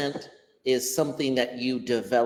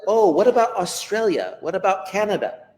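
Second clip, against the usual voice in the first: higher-pitched mock protest; pitched-up questioning voice of an objector; imagined objector; 5 semitones higher, 3 dB louder, faster than usual. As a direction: imitate someone butting in with objections.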